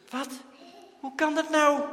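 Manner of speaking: high, loud disbelieving cry; shocked outcry. A narrator's reading. Boys crying out at Daantje's total, shocked. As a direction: blurt it out in shock.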